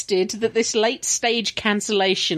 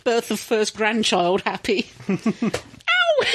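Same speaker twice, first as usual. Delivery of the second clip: laughing. Real, not acted. Gloating over cancelled film, laughing.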